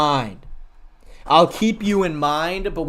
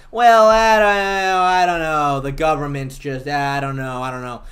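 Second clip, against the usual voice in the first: dithering crowd; 6 dB louder than usual. Retold or imitated. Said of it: "everybody goes".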